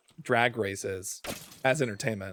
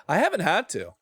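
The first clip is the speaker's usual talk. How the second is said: a rush of eager, higher energy; too excited; 5 semitones higher than usual. Real, not acted. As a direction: blurt it out, overexcited. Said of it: "I, I got too excited".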